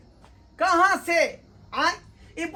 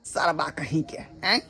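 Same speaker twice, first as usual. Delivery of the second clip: very low, quiet grumbling aside; muttered curse; 13 semitones lower, 6 dB quieter than usual. Acted. Host swears at the fussy guest, muttering low. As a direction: curse him under your breath.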